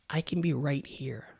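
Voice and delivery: breath-led whisper close to the mic; close-mic whispered demo; intimate whisper. Shown as a demonstration. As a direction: lean in and whisper it. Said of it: "It allows me to whisper or to lean in".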